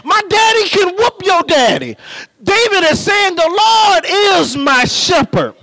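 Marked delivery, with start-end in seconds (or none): 0.0-2.0 put-on higher, teasing kid's brag with a laugh; chanting my daddy can whoop your daddy; playground taunt. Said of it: "you know how we said on the playground". 3.3-5.5 proud shout of ownership; with attitude. Acted. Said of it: "I believe David got an attitude".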